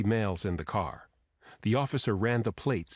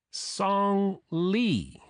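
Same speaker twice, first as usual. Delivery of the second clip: higher, drawn-out savoring of the name; delighted greeting; 10 semitones higher than usual. A narrator's reading. Grandmother meeting her grandson's girlfriend, delighted.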